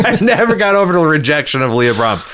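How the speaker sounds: mock Geordi moping over lost love; mock whiny Geordi. Mocking Geordi's lament.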